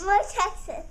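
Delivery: laughing. Real, not acted. Kid laughing answer.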